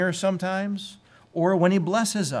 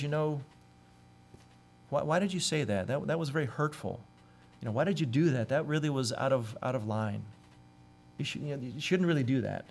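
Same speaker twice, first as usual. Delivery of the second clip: lovingly; 5 dB quieter than usual. Retold or imitated. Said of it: "someone lovingly says".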